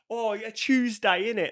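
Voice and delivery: slow, high-pitched exaggerated British accent; hammed-up British accent, vowels stretched; mock British accent. Imitating Americans doing British accents, hammed-up British. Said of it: "when they're like".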